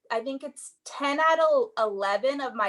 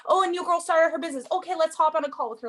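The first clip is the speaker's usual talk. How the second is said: higher and quicker, bubbly eagerness; eager excited thought; 6 semitones higher, faster than usual. Retold or imitated. A coach imagining a new recruit, quick and excited. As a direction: rattle it off fast like an eager go-getter.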